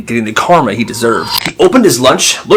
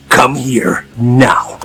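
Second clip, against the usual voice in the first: slow, low, stern order; stern command; 3 semitones lower, much slower than usual. Retold or imitated. Teacher summoning the terrified bully, slow and stern. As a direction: drag each word out like a cold warning.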